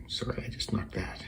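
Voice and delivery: a hushed apology, almost to yourself; sudden murmured sorry off to the side; quick whispered aside. Real, not acted. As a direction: whisper it under your breath. Apologizing for bumping the mic.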